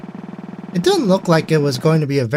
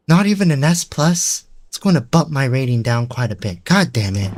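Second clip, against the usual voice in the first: a low, evil villain woman's voice; lower villainous voice; 3 semitones lower than usual. Acted. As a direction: voice her as a sinister villain, low. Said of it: "evil villainous voice".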